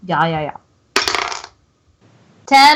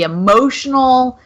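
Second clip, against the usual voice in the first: mock calm; slower than usual. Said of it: "I want to very calmly".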